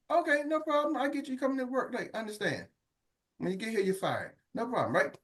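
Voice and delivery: soft, sugary fake agreement; a boss agreeing softly while planning to fire you; mock calm acceptance. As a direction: purr it sweetly, a quiet threat hiding underneath. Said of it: "you can just accept it".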